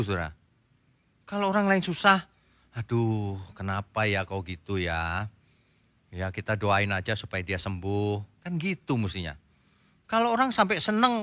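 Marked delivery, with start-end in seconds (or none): 2.8-8.4 low, soft, slow concern; softly pitying, as if consoling; acted sympathy. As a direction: sigh it out gently and slowly. Models sympathy for someone in trouble.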